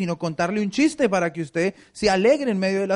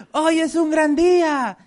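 "Hoy es un gran día" pitched much higher, louder and slow; hyped-up; 10 semitones higher, 5 dB louder, slower than usual. Shown as a demonstration. Pastor mocks hyping up the congregation, stretched cheer. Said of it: "Al maduro toca decirle".

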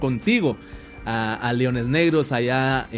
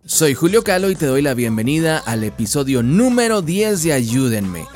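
podcast announcer voice; 3 dB louder than usual. Acted. Podcast host intro over music.

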